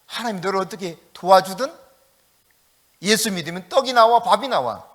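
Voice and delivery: taunting jeers, mostly loud; mocking enemies. Preacher voicing the enemies' taunts at the psalmist, mockingly. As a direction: sneer at the believer like a scoffer. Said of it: "그 조롱하는 소리가".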